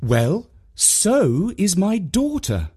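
mum's slow retort. A narrator's reading. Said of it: "said Mum".

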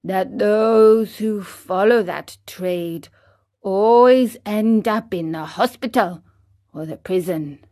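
the cricket counselling Pinocchio calmly. Acted. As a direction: speak calmly and kindly. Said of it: "in his calm voice".

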